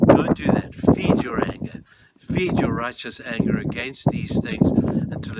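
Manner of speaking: loud, urgent preacher's outburst; real preaching at full force; forceful exhortation. Real, not acted. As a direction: fire up the congregation. Preacher urging congregation to anger.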